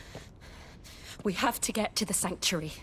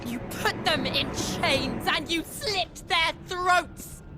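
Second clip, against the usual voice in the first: accusing; 4 semitones higher than usual. Acted. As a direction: hurl the accusation at him. Confronting the Patriarch in fury.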